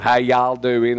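a light imitation of a Kentucky drawl, English speaker putting it on; mock Kentucky greeting. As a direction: tries out a Kentucky "How y'all doing?" with a stretched "y'all". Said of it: "I don't talk like that and".

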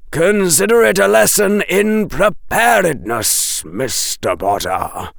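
a dry professor correcting the rescuer; Quirrell lecturing. Acted.

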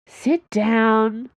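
brisk bossy instruction; ordered. A narrator's reading. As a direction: command him to sit, no arguing. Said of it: "Dana ordered him".

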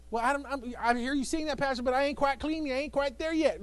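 lightly voiced hesitant churchgoer; doubting churchgoer. Congregant voiced by the pastor.

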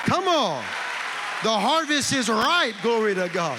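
loud, high, fervent cry; preaching at full force. Real, not acted. Preacher rousing the church, loud and high. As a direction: shout it out like a revival peak. Preacher peaks before congregation.

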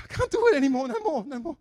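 put-on high, loud Indian accent, repeated. Coworker repeating that he quits the Bible, Indian accent. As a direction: moan it again in the Indian accent. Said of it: "With a very pronounced Indian accent".

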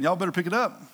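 casual, lightly needling trash talk; mild, folksy mockery of the losing side; talking junk. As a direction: toss out taunts with pauses between each jab. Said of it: "Elijah is talking junk".

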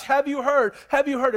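buzzing with the news; excited gossip. Acted. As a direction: townsfolk excitedly asking each other. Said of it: "People were excited about this".

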